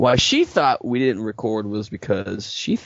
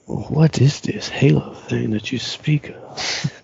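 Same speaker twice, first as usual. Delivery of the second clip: slow, higher, put-on puzzled voice; mock bewilderment; 4 semitones higher, much slower than usual. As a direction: draw it out with exaggerated curiosity. Mock puzzlement at topic just raised.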